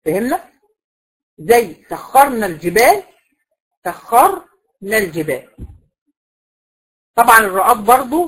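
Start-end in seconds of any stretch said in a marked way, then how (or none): 1.9-5.6 slow recitation of سخرنا with a heavy, still r; heavy vowelless ra. Shown as a demonstration. Teacher gives the example for thickened ra, slow recited سخرنا. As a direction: draw out سخرنا, keeping its r dark and vowelless. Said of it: "هفخمها وهي ساكنة".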